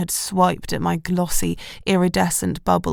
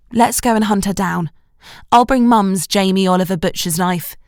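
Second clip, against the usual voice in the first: enthusiastic. Acted. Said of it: "sounded positively enthusiastic".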